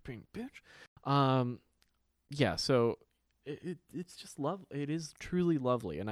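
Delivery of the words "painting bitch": much softer and slow, under the breath; soft, slow aside; throwaway punchline. Real, not acted. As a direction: toss it off quietly. Punchline muttered.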